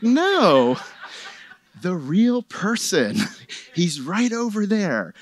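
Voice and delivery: laughing. Retold or imitated. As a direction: chuckle while correcting her, slowly at first. Retelling, laughs on lines.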